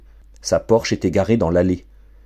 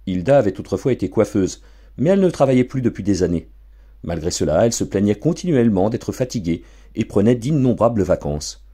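usual speaking voice

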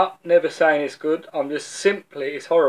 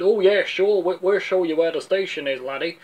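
lightly put-on Burnley accent, starting higher; attempted Burnley accent; 3 semitones higher than usual. Burnley bloke answering lost Millwall lads, attempted Burnley accent. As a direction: have a go at a Burnley local's accent. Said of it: "That's my attempt at a Burnley accent".

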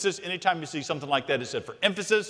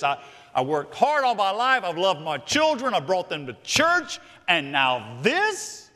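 aggrieved complaint; 3 semitones higher, 3 dB louder than usual. Acted. Voices congregant's aggrieved complaint.

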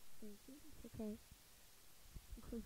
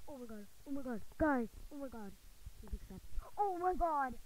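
real excitement; 3 semitones higher, 6 dB louder than usual. Real, not acted. Player begging for the trade to be accepted, excited. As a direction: keep repeating it as the thrill bursts out.

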